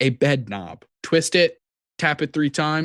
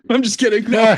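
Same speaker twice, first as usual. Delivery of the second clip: laughing it off, higher; 10 semitones higher, 7 dB louder than usual. Real, not acted. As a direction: chuckle through the take-back. Laughing after a cigarette joke.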